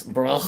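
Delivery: "bro" said as broth with a throaty, drawn-out -oth; emphasized ending. Shown as a demonstration. Streamer showing viewers how to emphasize it, exaggerated ending. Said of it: "You gotta emphasize the".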